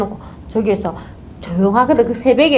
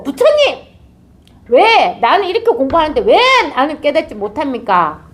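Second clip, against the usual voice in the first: challenging cry; 5 semitones higher than usual. Shown as a demonstration. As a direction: confront Buddha, demanding answers. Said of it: "이렇게 좀 덤벼보란 말이에요".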